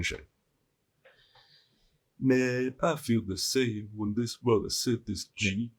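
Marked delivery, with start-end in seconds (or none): 2.2-5.7 slightly higher put-on voice; lightly mock a listener's complaint; mock commenter. Joker voicing a listener who used to have social anxiety, mock commenter.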